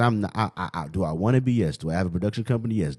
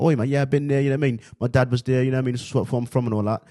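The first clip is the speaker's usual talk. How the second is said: put-on higher-pitched London accent, chatty; 4 semitones higher, faster than usual. Telling classmates he has been to London, London accent. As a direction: chat away like a Londoner. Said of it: "I talked with a British accent".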